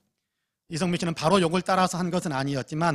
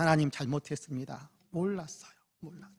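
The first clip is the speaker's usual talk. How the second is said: tearful prayer; 6 dB quieter than usual. Retold or imitated. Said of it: "울부짖으며 기도했답니다".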